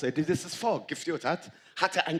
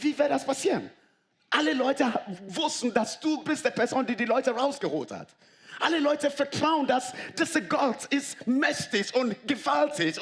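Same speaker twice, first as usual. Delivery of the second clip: urgent, much higher pleading protest; pleading with God; 9 semitones higher than usual. Acted. Preacher voicing Moses urgently arguing with God, high and pressing. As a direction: beg God to keep his word, voice climbing high.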